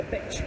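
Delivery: "beach" with a short i, like bitch; mispronounced beach. Retold or imitated. Student tells teacher about the weekend, mispronouncing "beach" as bitch. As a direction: say "beach" with the vowel cut short. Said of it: "bitch is a very bad word".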